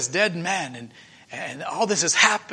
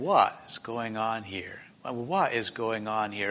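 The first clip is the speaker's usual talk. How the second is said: puzzled wondering; 7 semitones lower, 8 dB quieter, slower than usual. Acted. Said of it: "went back home wondering".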